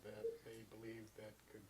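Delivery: muffled, talking behind a mask; through a face mask. Real, not acted. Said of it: "I'm just talking through a mask".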